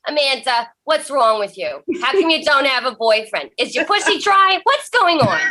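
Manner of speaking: a hammed-up family member grilling Amanda; mock nagging relative. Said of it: "I would much rather be like".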